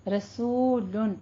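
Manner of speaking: "रसूलुन" slow with the soo held; careful drawn-out "रसूलुन"; long rounded soo. Shown as a demonstration. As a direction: stretch the middle vowel of "रसूलुन" with open rounded lips. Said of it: "सू को दोनों होंठ खोल करके".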